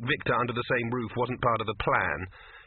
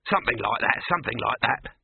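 louder, impatient repetition; a curt snap at Victor; snapped; 4 dB louder than usual. Acted. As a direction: brush off the boy's quibble. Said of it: "snapped Dibbler".

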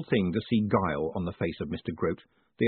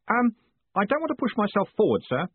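diffident; 11 semitones higher, 3 dB louder than usual. Acted. Shy clerk hesitates before boss.

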